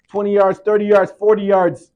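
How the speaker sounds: loud, high excited count of the yards. A narrator's reading. Preacher counting the yards the player crawls. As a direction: call out the yards rising in tension.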